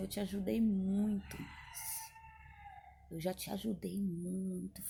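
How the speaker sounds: spoken softly, hushed, almost a murmur. Retelling what a person said while leaving the room: imitating someone speaking softly. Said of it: "Falando baixinho".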